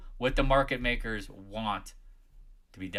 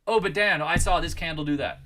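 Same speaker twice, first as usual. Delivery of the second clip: higher, louder mimic of a student; mock whiny member; 6 semitones higher, 5 dB louder than usual. Streamer imitating a Discord member asking him, higher mock voice. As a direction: pipe up like a clueless chatter. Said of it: "mimicking a member's question".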